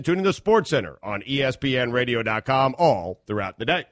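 brisk sports update voice; news read. Acted.

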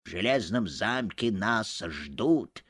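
put-on creaky old man's voice, slow; a creaky, aged rasp. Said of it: "скрипучим голосом сказал один".

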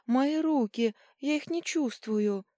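high, loud, slowing at the end; panicked cry. A narrator's reading. Paralysed girl crying she can't feel her arms. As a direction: panic over numb limbs.

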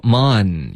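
"mon" with a full, open "ah"; relaxed vowel. Shown as a demonstration. Teacher correcting a student's vowel, relaxed pronunciation. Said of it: "mon要稍微放松一点".

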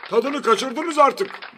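high, loud, slow complaint; annoyed protest. A narrator's reading. Prime minister tells applauders they overdid it, annoyed.

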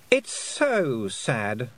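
silky, mocking fairy queen voice. Queen taunting Tiffany with a cool, mocking voice. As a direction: taunt her sweetly from above.

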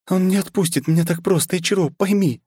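high princess voice, a touch of a sob; a princess pleading into his shoulder, lightly tearful; mildly tearful, high young woman's voice; sobbing plea. Acted. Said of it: "всхлипнула княжна".

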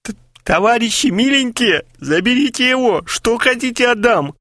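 high stuttering beg; stammering plea. Acted. Kharchenko begs his dear comrades, high and stuttering. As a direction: plead desperately, tripping on words.

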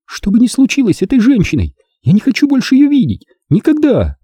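put-on high, childlike cold finality; coldly. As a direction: end it with icy dignity. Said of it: "холодно закончила".

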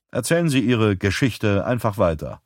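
"Geschichte" lightly emphasized, the rest even; light stress on GESCHICHTE. A narrator's reading. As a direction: lean slightly on the word "Geschichte". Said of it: "Mit einer leichten Betonung auf Geschichte".

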